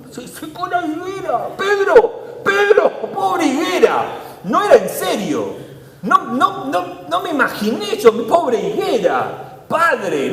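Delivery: high, hammed-up regretful voice; mock flustered Jesus. Preacher mocking a Jesus who didn't mean it, high and dismayed. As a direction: play a panicked Jesus backpedaling. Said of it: "Jesús no tenía esa ambigüedad".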